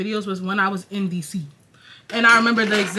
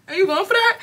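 higher, teasing repeat through a laugh; 9 semitones higher than usual. Retold or imitated. Teasing the guy about his girlfriend, high laughing repeat. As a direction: tease him, giggling. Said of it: "I'm like".

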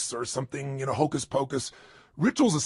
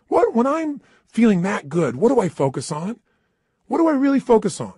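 feeling great; 7 semitones higher, 6 dB louder than usual. Shown as a demonstration. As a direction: show how a fired-up person asks. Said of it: "Let me try it".

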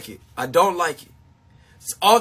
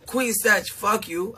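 softer, dropping down, almost tender; softer take; 6 dB quieter, slower than usual. Retold or imitated. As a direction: take the curse back gently. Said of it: "then it be like".

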